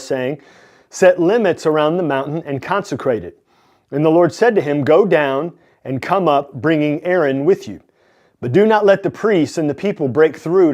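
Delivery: measured, emphatic Bible reading; scripture reading. Acted. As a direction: read the verses out clearly to listeners. Reads scripture aloud.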